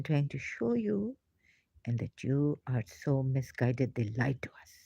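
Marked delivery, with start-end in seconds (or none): 3.9-4.7 breathy whisper on lied; a secret you can barely say; whispered confession. Real, not acted. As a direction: let it slip out in a whisper. Confession whispered after build-up.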